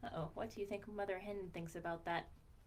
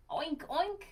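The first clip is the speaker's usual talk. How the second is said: louder, higher oinking; pig oink; 7 semitones higher, 6 dB louder than usual. Acted. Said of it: "The pig says".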